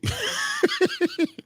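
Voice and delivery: high rising laugh; real laugh, high and breathy; burst of laughter. Real, not acted. Laughing at "I'm a spirit.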